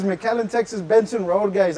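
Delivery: Tex-Mex accent mixing English and Spanish; easy Texan-Mexican accent. Real, not acted. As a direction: give the address like a Texan Latino. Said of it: "Hablas bien tejano".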